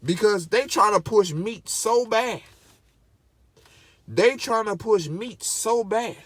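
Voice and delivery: slow, heated insistence; slow indignant complaint; upset. Real, not acted. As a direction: drag it out, annoyed. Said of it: "I'm getting upset".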